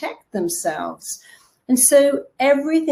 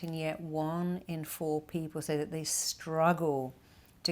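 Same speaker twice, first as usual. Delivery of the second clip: soft sleep narration; 3 semitones lower, 16 dB quieter than usual. Acted. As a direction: lull them toward sleep. Switches to sleep talk.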